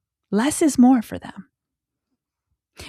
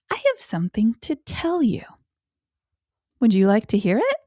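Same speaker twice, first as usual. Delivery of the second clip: put-on inviting toddler talk; 2 semitones higher than usual. Shown as a demonstration. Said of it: "could sound like".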